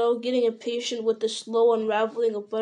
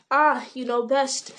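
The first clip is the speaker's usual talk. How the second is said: knowingly; 2 semitones higher, 3 dB louder, slower than usual. Acted. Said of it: "said the landlord knowingly".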